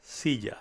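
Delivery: "Silla" with the double L like a softened English J; soft J in Silla. Shown as a demonstration. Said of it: "J sound in the English word".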